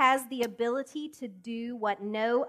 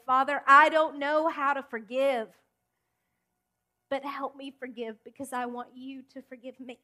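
tearful prayer; 2 semitones higher, 4 dB louder than usual. Retold or imitated. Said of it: "I would cry and I would pray".

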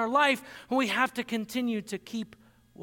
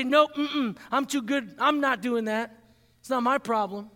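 religious attitude. Retold or imitated. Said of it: "have a religious attitude about it and say".

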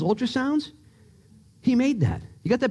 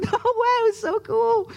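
excited; slower than usual. Retold or imitated. Sees dolphins, I was like.

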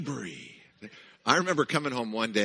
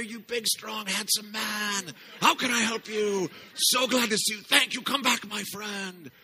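high, loud, gushing greeting; lavish the compliments on him; imitating Sabri's welcome; 12 semitones higher, 4 dB louder than usual. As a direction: clerk welcoming the tired husband, much higher and louder. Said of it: "I just wanna hear".

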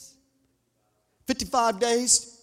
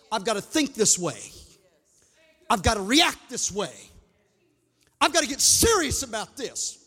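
fervent revival preacher, higher than plain talk; full-force preaching; 5 semitones higher than usual. Real, not acted. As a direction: drive each declaration home to the congregation.

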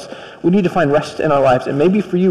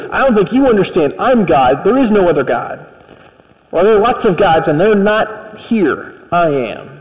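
arrogant stress on don't; 2 semitones higher than usual. Acted. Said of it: "And Pharaoh goes".

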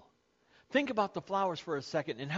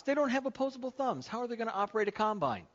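mock disbelief; 6 semitones higher, faster than usual. Mock-incredulous aside about birds.

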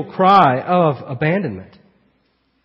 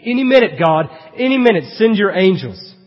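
expectant plea; 5 semitones higher, 4 dB louder than usual. Acted. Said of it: "Jesus here on the cross is thinking".

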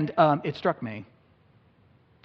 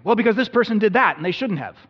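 higher, louder indignant excuse; mock indignation; indignant self; 5 semitones higher, 5 dB louder than usual. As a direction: justify yourself hotly. Inner dialogue, angry self.

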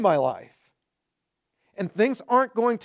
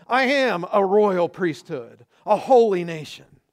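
loud, measured declaring of each I am; bold declaration; 4 dB louder than usual. Shown as a demonstration. Preacher leading the church in loud declarations. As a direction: proclaim it over your life with conviction.

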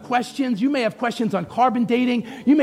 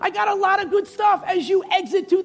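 high, impassioned preacher's cry; strong preaching; 9 semitones higher than usual. Real, not acted. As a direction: climb into full-force urgent preaching. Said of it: "I'm strong today because".

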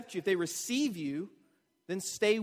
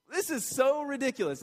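softer scoff; 6 semitones higher than usual. Retold or imitated. Preacher repeating Peter's dismissal to the crowd, gentler scoff. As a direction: repeat it higher but a bit gentler, dismissive. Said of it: "his point is, like".

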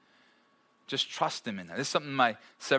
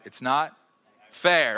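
put-on a child's sulky complaint, fair louder; whiny little girl; 5 dB louder, much slower than usual. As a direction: whine it like a sulking little girl. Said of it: "Someone was that little girl".

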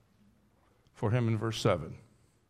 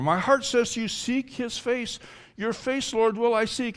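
high, yearning appeal; earnest prayer, pitched high; crying out to God; 10 semitones higher than usual. Acted. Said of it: "as he's crying out to God".

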